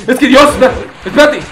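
words broken up by real laughter; laughing. Real, not acted. Gamer cracking up at his dog, laughing through the words.

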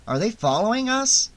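high, anxious question; worried wondering. A narrator's reading. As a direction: ask it nervously, pitch climbing. Nervous man wonders about pursuers.

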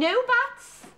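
sharp, loud, high cut-off; stern rebuke. Acted. Governess snapping at pupil, loud sharp rebuke. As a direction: shut her down at once.

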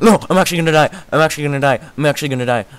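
loud, high panicked cries of doom; frantic gamer panic; panicked yelling. Real, not acted. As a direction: yell it like death is coming, fading a little each time.

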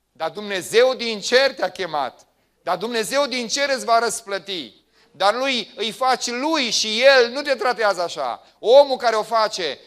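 loud, high impassioned preaching; full-force sermon rebuttal; fervent preaching. Acted. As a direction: answer the doubts with fire. Preaching reply to feelings.

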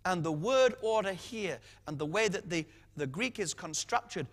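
ordinary talk

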